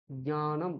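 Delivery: জ্ঞানম with a light j blended into a palatal ny; careful nasal ny in জ্ঞানম; Sanskrit pronunciation. Shown as a demonstration. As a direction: say জ্ঞানম as Sanskrit j-nya-nam, not gyanam. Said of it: "সংস্কৃতে কিন্তু".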